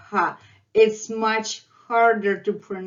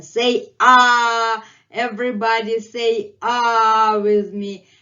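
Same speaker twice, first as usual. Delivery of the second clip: mascot inviting learners; 4 semitones higher, 5 dB louder than usual. Acted. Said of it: "And he's saying".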